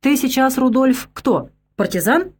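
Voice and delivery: rising, demanding interrogation; pressing questions. A narrator's reading. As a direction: push him for an answer. Chorny presses Rudolf with questions.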